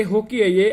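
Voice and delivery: हॉकी said with a clear h at the start; हॉकी with h pronounced; h sounded. Shown as a demonstration. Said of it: "एच silent नहीं है".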